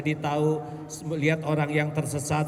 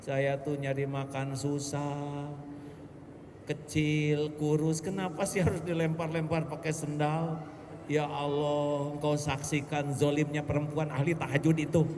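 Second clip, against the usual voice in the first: cat's lament. Pretend. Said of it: "kata kucing lah".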